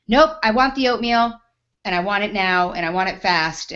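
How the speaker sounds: loud, pushy refusal; mock stubborn customer demanding; insistent customer. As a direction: mimic her brushing off the warning.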